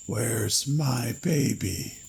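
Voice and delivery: put-on a ghoul begging for its child; husky mutter. A narrator's reading. Cadaver demanding its baby, slow husky plea. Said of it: "The thing muttered huskily".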